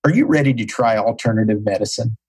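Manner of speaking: imitating the doctor's deep, gravelly voice. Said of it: "in his deep, gravelly voice".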